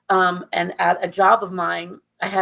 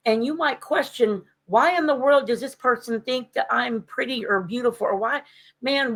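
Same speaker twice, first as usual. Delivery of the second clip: heated lecture; 3 semitones higher than usual. Retold or imitated. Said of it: "I got a little heated with her".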